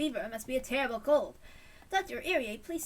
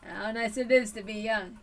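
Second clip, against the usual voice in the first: amused chuckle; 6 dB louder than usual. Acted. Old man amused.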